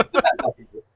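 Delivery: hammed-up Kiwi Australian accent. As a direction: still in a bad mock Kiwi Australian accent, high. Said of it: "sorry for my Kiwi Australian accent".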